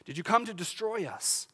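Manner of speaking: high-pitched cry without much volume; restrained, dramatized scream; mock panicked scream. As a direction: act out a panicking spirit lashing out. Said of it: "He's screaming".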